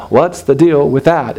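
slow, sarcastic comic's complaint; Jerry Seinfeld. Acted. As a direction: lightly imitate a stand-up's puzzled gripe. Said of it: "You can almost hear Jerry Seinfeld say this".

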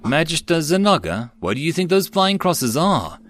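high-pitched curious youngster; inquisitive, lifted young character voice. A narrator's reading. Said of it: "Seal asked curiously".

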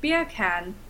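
put-on British pronunciation; British accent. Shown as a demonstration. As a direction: demonstrate British "beer can" as "bee-uh can". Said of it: "In British".

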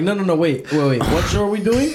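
hammed-up panic at a mix-up; mock confused protest. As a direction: play dumb and scramble, mocking them. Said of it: "motherfuckers like".

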